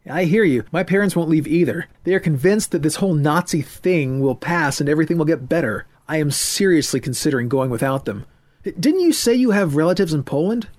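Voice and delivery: put-on high, loud, distressed young man; upset young man. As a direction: pour it out in rising anger and fear. Voices Ethan.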